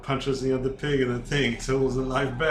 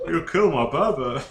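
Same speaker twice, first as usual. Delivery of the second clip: wailing mama bear; 4 semitones higher, 3 dB louder than usual. Pretend. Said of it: "the big mama bear, the werewolf bear, goes".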